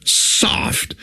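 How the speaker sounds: breathy near-whisper on soft; said softly. Acted. King dropping to a whisper on soft. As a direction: let the word go soft and airless.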